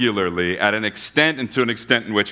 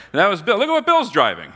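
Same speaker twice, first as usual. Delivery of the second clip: high, eager gossip voice, pitched way up; gossiping neighbor; 10 semitones higher, 3 dB louder than usual. Retold or imitated. Neighbors pointing out Bill's car, high gossipy voice. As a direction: lean in like a nosy neighbor spotting Bill's car.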